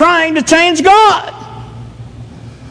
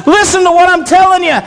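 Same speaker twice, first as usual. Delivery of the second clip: higher, pressing words to sleepy friends; urgent Jesus; 4 semitones higher than usual. Retold or imitated. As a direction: plead with them to understand, pitched higher. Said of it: "he's saying".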